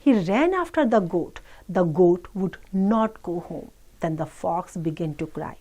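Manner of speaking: slow, measured English read-aloud; children's story reading. Acted. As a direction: read slowly to children, word by word. Reads English story slowly to children. (बच्चों को धीरे-धीरे कहानी पढ़कर सुनाना)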